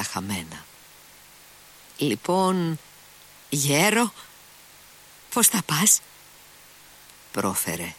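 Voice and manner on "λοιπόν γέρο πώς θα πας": higher, the cheer cracking as he speaks; a boy forcing a casual greeting until his voice cracks; voice breaking. A narrator's reading. Kolya greets his sick friend, the forced cheer cracking at the end. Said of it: "Μα η φωνή του έσπασε".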